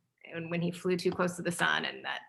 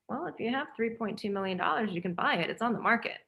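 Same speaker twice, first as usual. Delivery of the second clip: offhand retold remark, slightly softer; casual; 4 dB quieter, faster than usual. Son casually answering the filmmaker's wish, offhand. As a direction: toss it off casually, imitating him. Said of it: "he just casually says".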